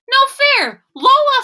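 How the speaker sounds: loud, high cry of protest. Acted. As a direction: complain it's unfair. Gilbert protests.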